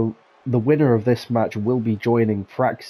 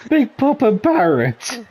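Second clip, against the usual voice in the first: amused mocking; 11 semitones higher, 3 dB louder, slower than usual. Real, not acted. Mocking teammate's name suggestion.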